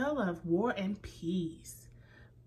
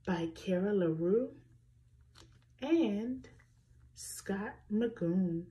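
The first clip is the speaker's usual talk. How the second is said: whisper. Shown as a demonstration.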